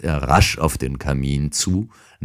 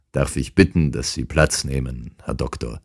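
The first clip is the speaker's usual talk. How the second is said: obliging; 2 semitones lower than usual. Acted. Holmes politely inviting the intruder to sit, obligingly. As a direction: courteously offer the seat, dropping away gently. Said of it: "sagte Holmes verbindlich".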